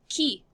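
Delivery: "Qui" starting with a plain K sound. Shown as a demonstration. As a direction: say "Qui" with a K, no W glide. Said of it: "is pronounced like a K sound".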